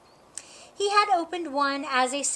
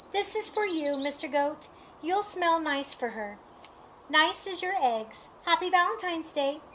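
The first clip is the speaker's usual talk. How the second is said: higher, sugary skunk voice; sweet skunk voice; 3 semitones higher than usual. Acted. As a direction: sweetly tease him. Skunk after spraying goat.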